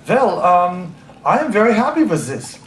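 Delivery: imitated German accent, th turned to z. German friend at the table remarks she's happy, German accent. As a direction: say it like a German speaking careful English. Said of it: "the German accent".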